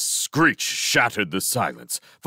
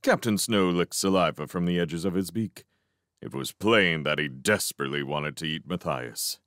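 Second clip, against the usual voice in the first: ordinary delivery, nothing marked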